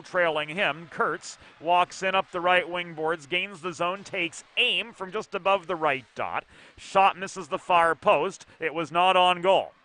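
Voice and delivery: brisk hockey call, following the puck; live play-by-play. Acted. Play-by-play caller describing the hockey game, brisk and steady. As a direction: call the action as it unfolds.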